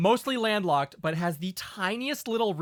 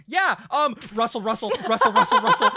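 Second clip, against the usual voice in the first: frantic, high, loud rustling mutter; a mad scientist digging through notes; 9 semitones higher, 9 dB louder than usual. Retold or imitated. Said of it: "you sounded like a mad scientist rustling through your notes".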